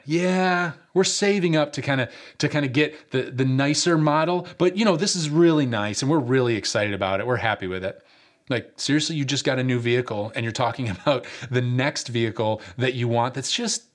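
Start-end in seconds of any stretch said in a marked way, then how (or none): 0.1-8.0 lightly mocking a proud new-car owner; smug car owner. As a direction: brag lightly about the next model. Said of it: "things that I've heard".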